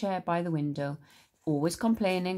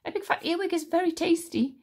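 put-on higher, relishing old hag; licking lips; 11 semitones higher, 3 dB louder than usual. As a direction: savour it greedily. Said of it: "licking her lips".

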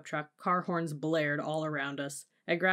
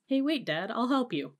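high call to a departing parent; yelling after someone; 7 semitones higher, 3 dB louder than usual. A narrator's reading. Sister calling after dad on the highway, high yell. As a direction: call out after him, pitched up. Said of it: "my sister yelled after him".

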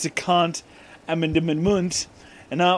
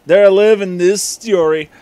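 lightly voiced loud quote; 5 semitones higher, 10 dB louder than usual. Character line read aloud, loud.

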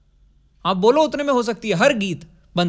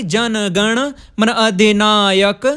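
"मन अधिनायक" slowed and louder, broken up; awkward word split; 3 dB louder, much slower than usual. Shown as a demonstration. Teacher showing a bad division of words, slow disjointed chanting. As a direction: break "जन गण मन अधिनायक" into stretched pieces. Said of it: "ये अच्छा नहीं लग रहा है".

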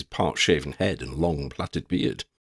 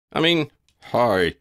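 forced low voice; 4 semitones higher, 3 dB louder than usual. A narrator's reading. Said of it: "in as low a voice as he could muster".

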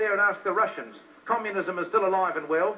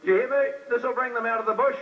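preacher's call; 4 semitones higher, faster than usual. Acted. Preacher calls out to congregation.

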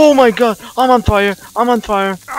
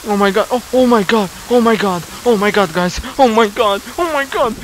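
high, louder frightened babbling; real fear rising in the voice; panicked; 4 semitones higher, 4 dB louder than usual. Real, not acted. Monsters appear, panicked repetition.

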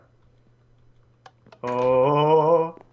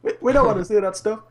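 put-on failed American accent, louder; 6 semitones higher, 5 dB louder than usual. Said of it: "I was trying to do an American accent".

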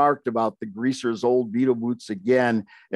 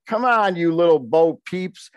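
taunting dare; 5 semitones higher than usual. Retold or imitated. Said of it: "my brother spoke up and said".

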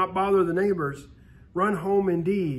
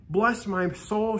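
exclaiming; 3 semitones higher, slower than usual. Acted. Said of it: "she exclaimed".

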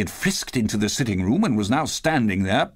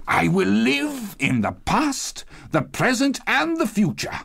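high-pitched, elated vow; fervent Scrooge; 10 semitones higher than usual. A narrator's reading. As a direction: declare it in a raised, eager voice. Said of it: "Scrooge repeated as he scrambled out of bed".

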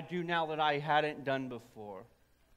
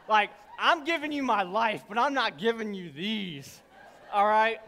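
mock defensive protest; 6 dB louder than usual. Refusing wife, mock defensive.

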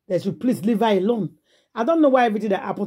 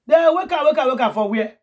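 incredulous; 7 semitones higher, 4 dB louder than usual. Real, not acted. Mocking the idea of waking him.

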